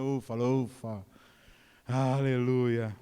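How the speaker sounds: slow, low sigh of relief; lightly acted thankful exhale; mock relief. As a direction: let it out slowly, as if spared bad news. Relief after expecting bad news.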